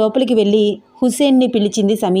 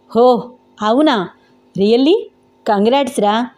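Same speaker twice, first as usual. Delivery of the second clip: mildly delighted, drawn-out surprise; a light, pleased cheer for his friend; happy congratulations. Acted. Hussain happily congratulating Venkat on the news, mildly delighted. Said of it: "చాలా ఆనందంగా నవ్వుతూ అన్నాడు".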